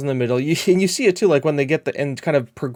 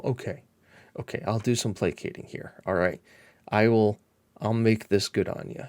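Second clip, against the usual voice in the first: placating; 3 semitones lower, 6 dB quieter than usual. Pretend. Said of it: "give him a little".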